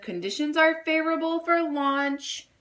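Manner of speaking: boy playing mission control; mission control yell. A narrator's reading. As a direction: play mission control proudly. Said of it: "Jack yelled back".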